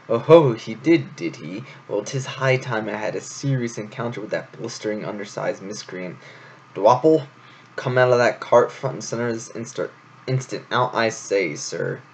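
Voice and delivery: lightly voiced pompous hare, outraged; a hint of a blustering indignant commander. Hare summons the culprit, lightly pompous and outraged.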